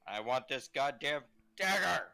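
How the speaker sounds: slow, emphatic demand; frustrated demand. Acted. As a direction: half-shout it, drawing the words out. Player's frustrated try at the dagger.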